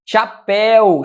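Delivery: "Chapéu" split, with the final "péu" punched; stress on last syllable. Shown as a demonstration. Teacher showing where the word's stress falls, "Chapéu" stressed on "péu". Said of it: "sílaba tônica é a última".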